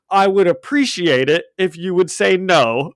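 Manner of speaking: a hint of a cool, firm Samuel L. Jackson delivery. Reading Fury's line to Peter in a light Samuel L. Jackson voice. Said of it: "I read everything in Samuel L. Jackson voice".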